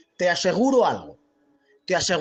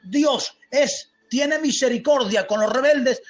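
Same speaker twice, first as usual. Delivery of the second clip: emphatic, raised, drawn-out sermon delivery; forceful preaching; 3 semitones higher than usual. Real, not acted. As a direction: preach it with rising fervour.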